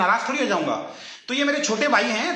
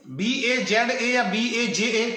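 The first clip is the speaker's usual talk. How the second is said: slow spelling out; slower than usual. Shown as a demonstration. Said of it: "बाजा की spelling बताओ जरा".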